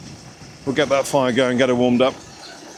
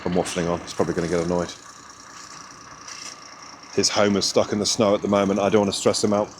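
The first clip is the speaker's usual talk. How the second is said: hushed aside; 7 semitones lower, 6 dB quieter than usual. Real, not acted. Aside to camera, friend stuck nearby.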